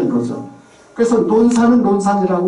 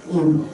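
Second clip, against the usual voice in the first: imitated straining grunt; 4 semitones lower, slower than usual. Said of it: "잉잉 하고 힘주는 소리".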